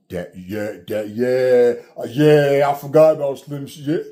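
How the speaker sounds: rising to an exclamation: that, yeah, that, YEAH; excited realization. Real, not acted.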